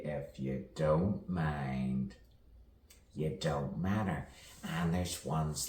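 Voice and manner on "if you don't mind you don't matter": slow "don't mind" with full, rounded "don't"; unhurried "if you don't mind", at an ordinary level; measured saying. Pretend. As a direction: recite "you don't matter" slowly as a common saying. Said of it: "As we all say".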